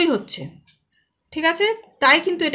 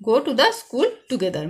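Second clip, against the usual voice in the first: slow dictation; much slower than usual. Shown as a demonstration. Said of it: "reading exercise to pupils".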